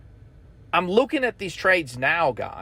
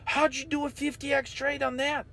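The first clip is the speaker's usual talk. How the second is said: mock amazement; 6 semitones higher than usual. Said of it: "you wonder, like".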